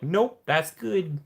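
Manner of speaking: breezy dismissal. Retold or imitated. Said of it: "She's like".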